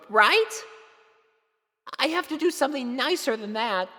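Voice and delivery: put-on fretting to herself in a squeaky kid voice; high girlish filly voice. A narrator's reading. Sweetie Belle worrying to herself about Spike, high and anxious.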